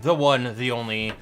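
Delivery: announcer intro. Acted. Host introduces co-host.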